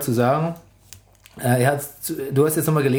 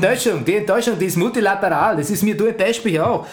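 hammed-up Austrian accent, cocky. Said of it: "Mach Mario Götze mit österreichischem Akzent".

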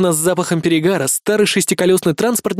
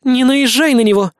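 higher and louder, sharp; growling snap; 8 semitones higher, 3 dB louder than usual. A narrator's reading. Kay snaps at the narrator to defend Vincent, sharp. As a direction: snap back defending him. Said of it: "рыкнула Кей".

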